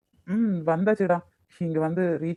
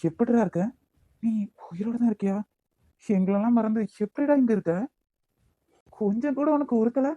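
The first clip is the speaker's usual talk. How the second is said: urgent reproach; 4 semitones higher than usual. Acted. Confronting found friend.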